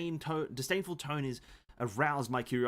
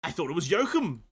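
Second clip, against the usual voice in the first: loud put-on British accent; 3 semitones higher, 5 dB louder than usual. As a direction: shout it in a hammy British accent. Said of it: "random British".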